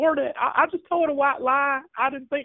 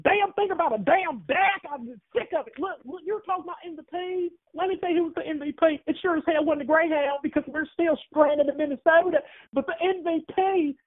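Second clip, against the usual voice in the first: angry Southern woman. Acted. Caller plays Luann, angry fan.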